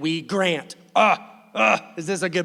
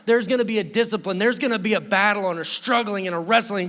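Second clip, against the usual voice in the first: emphatic God; 3 semitones higher, 5 dB louder than usual. Retold or imitated. God voiced in sermon.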